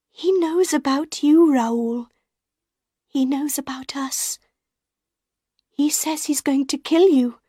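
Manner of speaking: put-on high, anxious young woman's voice; warning him urgently; Christine, afraid. A narrator's reading. Christine warning Raoul of the threat.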